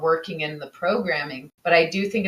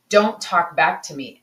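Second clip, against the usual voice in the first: imitating a firm parent, usual pitch; retold parental order; 3 dB louder than usual. Mother recalls telling her children off, firm retold order. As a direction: lay down the rule as retold, evenly. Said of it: "I remember telling my children".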